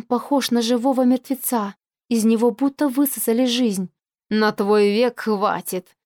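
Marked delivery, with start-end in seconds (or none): 4.3-6.0 dismissive. Acted. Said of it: "отмахивается Бранаур".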